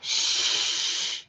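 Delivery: soft warning shh; cautioning hush. A narrator's reading. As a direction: hush him, finger to lips. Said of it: "he cautioned".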